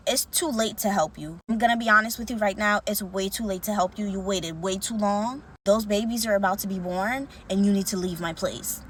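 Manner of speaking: level, firm refusal in retelling; understated gravity, no room for argument; dead serious. Retold or imitated. Priest tells the pregnant woman it's too late, dead serious. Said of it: "dead serious about it".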